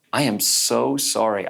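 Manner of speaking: slow, heartfelt retold apology; compassionate. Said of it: "I was just so filled with compassion".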